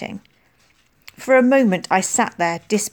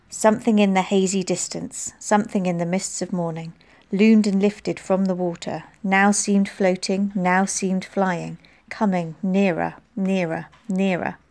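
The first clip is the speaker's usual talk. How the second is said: poem recital. Acted. Girl reciting Hiawatha in class, rhythmic. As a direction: let the chant pull you in.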